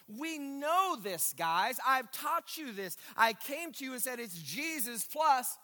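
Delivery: lightly acted insistent apostle; Paul making his point. Preacher voices Paul reminding believers what he taught, lightly insistent. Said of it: "And here's Paul's point".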